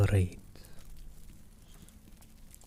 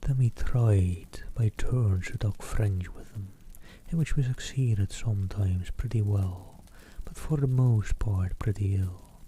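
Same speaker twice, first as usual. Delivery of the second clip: hushed storybook reading; whispered reading; slower than usual. Acted. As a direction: read it in an ASMR whisper. Whispered ASMR reading continues.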